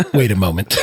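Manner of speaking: low words through laughter; laughing while reading. A narrator's reading. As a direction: read it cracking up.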